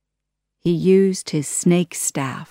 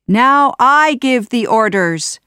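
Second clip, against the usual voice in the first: higher, louder gloat; triumphant cry; 6 semitones higher, 6 dB louder than usual. Acted. Jafar crying out in triumph, loud gloat. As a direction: crow your victory. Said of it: "Jafar cried".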